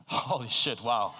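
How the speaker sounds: laughing, stunned by the audience; real surprise. Real, not acted. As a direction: genuinely caught off guard. Audience raises hands unexpectedly.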